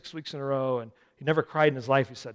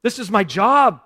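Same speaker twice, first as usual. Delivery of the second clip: loud, slow, emphatic declaration; excited; 7 semitones higher, 14 dB louder, slower than usual. Acted. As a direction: proudly insist it's your calling. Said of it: "he's excited".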